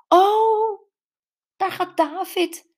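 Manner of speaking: loud, high excited call; spotting him, call it out high and loud. A narrator's reading. Jules spots David driving past, loud high call. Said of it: "riep ze".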